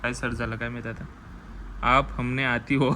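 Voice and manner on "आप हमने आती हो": laughing mimicry. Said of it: "तुझी भाषा समजत नाही ते".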